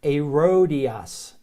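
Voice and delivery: Herodias said slowly without the H, ay-roh-DEE-ahs; slow Greek name. Shown as a demonstration. Teacher to class, sounding Herodias out slowly. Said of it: "That's eta".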